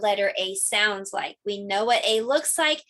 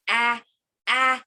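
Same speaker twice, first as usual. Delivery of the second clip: breath catching before a sneeze; mild sneeze wind-up; about to sneeze. Pretend. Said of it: "I just keep sneezing".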